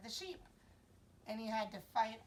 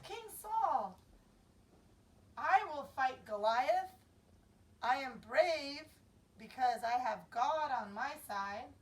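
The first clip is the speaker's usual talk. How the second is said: put-on brave young David; 5 dB louder than usual. David tells King Saul he will fight, eager and brave. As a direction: stand tall and declare it. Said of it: "and he said".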